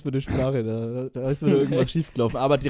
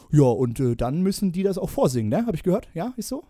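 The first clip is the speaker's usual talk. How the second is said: bossy TV judge, fast and pushy; a hint of a stern casting-show judge; a pop producer; faster than usual. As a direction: lecture him like a pompous pop titan. S0 holds the judge role.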